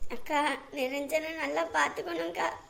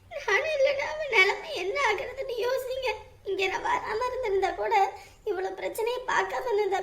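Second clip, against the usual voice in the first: tearful lament; 4 semitones higher than usual. Acted. Mother tearfully complains to neighbour.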